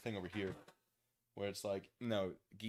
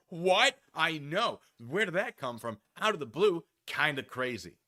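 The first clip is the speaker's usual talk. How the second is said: loud, high what followed by playful outrage; loud playful disbelief; mock shock; 6 semitones higher, 10 dB louder, slower than usual. Real, not acted. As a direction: act stunned for the audience. Mock shock at own story.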